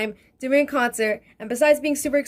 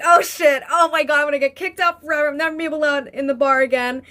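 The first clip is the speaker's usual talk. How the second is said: panicked outburst; faster than usual. Retold or imitated. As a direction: blurt it out in a rush of panic. Panicking about getting banned.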